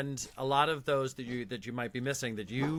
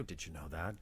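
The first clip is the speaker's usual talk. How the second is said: creepy deep voice; 7 semitones lower, 11 dB quieter than usual. Pretend. Creepy Beetlejuice voice follows.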